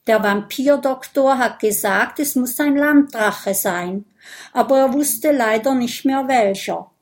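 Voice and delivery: a hint of a huffy vampire boy; vampire boy, a little indignant. Vampire boy explains blood tasting to Lulu, mildly indignant.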